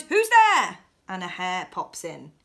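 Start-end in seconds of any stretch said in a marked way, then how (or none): 0.0-0.8 high, loud startled squeak; mouse cries out. Acted. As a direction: call it out like a frightened little mouse. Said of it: "Mouse cries".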